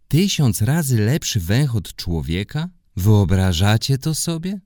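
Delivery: amazed. Acted. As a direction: gasp at the huge number. Amazed at the number.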